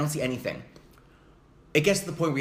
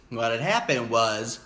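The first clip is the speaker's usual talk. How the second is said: slow, lower, drawn-out storyteller build-up; slow dramatic repeat; 3 semitones lower, slower than usual. Shown as a demonstration. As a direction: stretch it out for suspense. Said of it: "So what had happened was".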